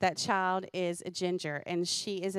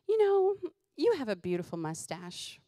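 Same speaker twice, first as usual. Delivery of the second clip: put-on child's voice; 4 semitones higher than usual. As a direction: say it like a sly little girl. Child complimenting mom.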